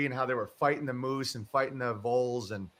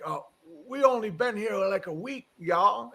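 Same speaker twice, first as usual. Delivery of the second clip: put-on Southern accent; 6 semitones higher than usual. Host retelling the neighbor's answer to a dinner invitation, Southern accent. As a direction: imitate an elderly Japanese man's Southern accent. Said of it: "Japanese guy with that accent".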